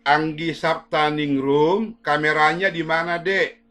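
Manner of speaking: slow, loud drawn-out call; calling out loudly. Real, not acted. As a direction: call the name slowly across the room. Teacher calls student again. (memanggil keras dan pelan)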